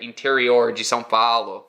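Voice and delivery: "Interior de São Paulo" with the curled country R; Brazilian countryside R. Shown as a demonstration. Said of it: "hard R's".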